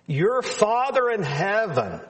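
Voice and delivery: "your" leaned on before "Father in heaven"; stress on YOUR. Shown as a demonstration. Preacher pointing out whose Father God is, stress on "your". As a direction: put the emphasis on "your". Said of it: "again, notice that emphasis".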